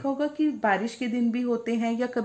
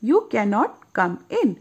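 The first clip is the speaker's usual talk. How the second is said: rosebud's refusal; much slower than usual. Acted. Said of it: "says the little white rosebud".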